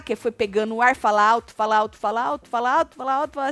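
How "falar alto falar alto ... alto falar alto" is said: ordinary delivery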